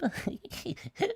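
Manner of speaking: high, soft character snigger; mock salesman's titter; put-on giggle.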